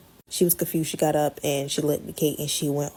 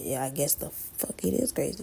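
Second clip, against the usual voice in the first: hushed unvoiced comeback; unvoiced whispered retort; retold whisper; 3 semitones lower, 8 dB quieter than usual. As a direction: whisper it like a secret insult. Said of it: "I said".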